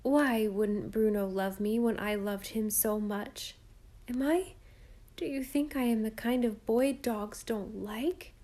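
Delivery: put-on a hurt boy asking his mother, holding back tears; choked voice. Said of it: "he said in a choked voice".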